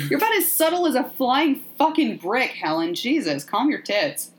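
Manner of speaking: high opening, settling as it goes; mock exasperation. Podcaster chiding Helen after the jump scare, mildly exasperated. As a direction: lightly play a rattled telling-off.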